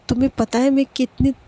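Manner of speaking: a lightly voiced girl gushing; excited missing friend. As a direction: pour out how much you missed her. Girl tells friend she missed her.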